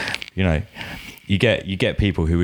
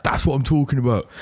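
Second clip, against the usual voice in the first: laughing; 7 semitones higher than usual. Retold or imitated. A rapper laughing approval.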